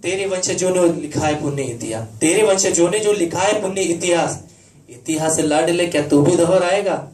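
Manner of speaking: declaimed poem in a mother's words; stirring stage recitation, lightly in role; mother's verse plea. Acted. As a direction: challenge a son in ringing, rhythmic verse. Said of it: "उसकी माँ उसे जो कहती है".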